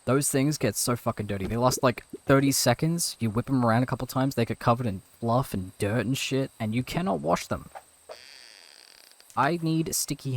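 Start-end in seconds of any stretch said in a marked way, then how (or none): 0.0-7.7 rant. Real, not acted. Ranting about sticky hands.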